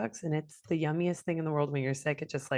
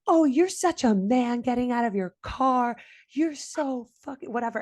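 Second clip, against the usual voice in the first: sarcastic taunt; 5 semitones higher, 3 dB louder than usual. Retold or imitated. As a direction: replay a jeering put-down at an opponent. Retold taunting in a car quarrel.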